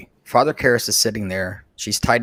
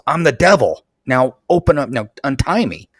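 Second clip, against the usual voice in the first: retold yell; 2 semitones higher, 4 dB louder than usual. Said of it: "And she yells".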